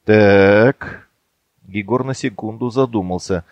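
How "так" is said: usual speaking voice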